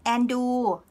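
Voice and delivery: Andrew in a Thai accent, r dropped, nasal first vowel. Shown as a demonstration. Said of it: "So this is, uh, the Thai accent".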